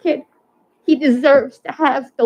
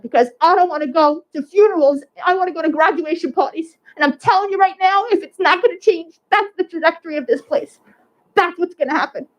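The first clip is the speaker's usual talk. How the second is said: pleading, close to tears, raised in pitch; emotional plea; 4 semitones higher than usual. Real, not acted. Mother pleading with the school board, emotional and raised. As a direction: voice pitched up with real emotion, not louder. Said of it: "I'm sorry if I'm getting loud".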